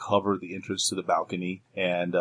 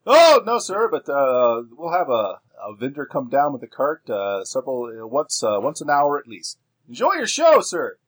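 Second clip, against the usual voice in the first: higher, louder, eager box-office attendant; exclaimed customer-service voice, pitched up; ticket seller; 6 semitones higher, 7 dB louder than usual. Acted. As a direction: call it out like a cinema ticket man.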